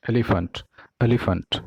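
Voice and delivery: एलिफेंट ending in a reduced "fənt"; एलिफेंट with schwa in the last syllable; correct pronunciation. Shown as a demonstration. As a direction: say एलिफेंट as E-li-funt. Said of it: "correct form of pronunciation is".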